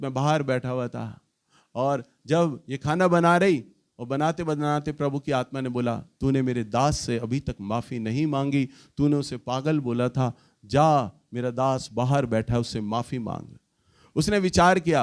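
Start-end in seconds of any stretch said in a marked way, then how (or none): 6.0-13.6 voice of the Lord. Retold or imitated. God's Spirit rebuking the wife again.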